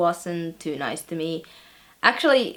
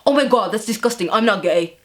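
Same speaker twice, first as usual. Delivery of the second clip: fast, indignant mock outburst; exploding in disgust; 4 dB louder than usual. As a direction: blurt out an acted, offended denial. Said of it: "he sort of explodes".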